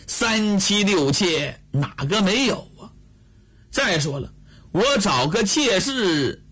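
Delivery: put-on coaxing, half-joking excuses to an older sister; wheedling younger brother. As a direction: sweet-talk your way out of trouble. Li Shimin pleads with sister.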